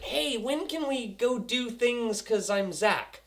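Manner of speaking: lightly voiced mock kid; a hint of a drawn-out, naive boy voice; imitación de Zach. Mocking Zach in a retelling.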